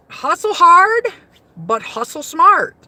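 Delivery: high and loud on "hustle hard", rising on "hard"; signing off her stream with a loud rallying cry; hype catchphrase. Real, not acted. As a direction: pump up the listeners. Signature sign-off catchphrase.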